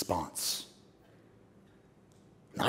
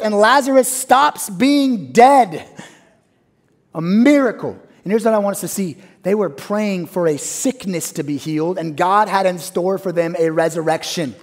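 ordinary talk, nothing marked

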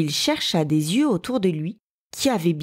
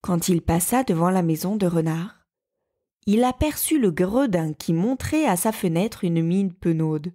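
usual speaking voice

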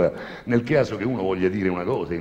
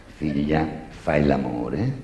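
slow, leering confessor; slow priest voice; 4 semitones lower, much slower than usual. Acted. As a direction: drag it out like a nosy priest. Priest questions the girl.

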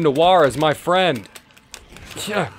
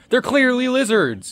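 mock deadpan; 9 semitones higher than usual. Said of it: "I almost said lizards".

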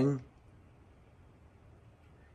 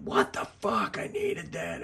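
mock snap; 10 semitones higher, slower than usual. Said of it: "And Dreamer snapped".

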